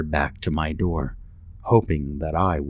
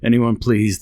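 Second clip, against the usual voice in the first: frantic plea; 5 semitones higher, 6 dB louder than usual. A narrator's reading. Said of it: "I repeated my plea".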